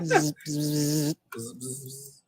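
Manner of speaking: buzzing static noise. Retold or imitated. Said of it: "push the rabbit ears closer together".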